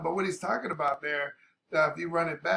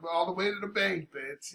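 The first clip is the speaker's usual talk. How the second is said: Barbie voice; 3 semitones higher, 8 dB quieter than usual. Retold or imitated. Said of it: "in her Barbie voice early on".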